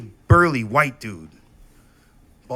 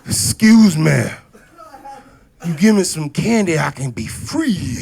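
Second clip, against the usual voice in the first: mock pitiful plea; 4 semitones higher, 8 dB louder than usual. Shown as a demonstration. Boy begging at the door for candy, quivering lip. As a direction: beg with a trembling lip. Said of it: "I would quiver the lip".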